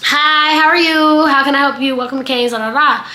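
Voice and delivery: a hint of a chirpy rote greeting; lightly voiced drive-thru worker. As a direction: lightly imitate a fast-food order taker. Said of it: "the person on the speaker is like".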